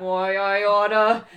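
slow, loud fist-shaking grumble; sputtering foiled villain. Acted. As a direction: shake your fist and sputter it out. Fist-shaking girl in the picture book.

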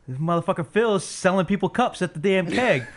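cracking up at his buddy's hustle; laughing while telling. Real, not acted. Laughing at friend's keg scheme.

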